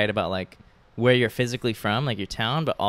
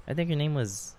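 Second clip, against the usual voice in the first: whispering; 3 semitones higher, 7 dB quieter than usual. Real, not acted. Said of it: "Why are you whispering?".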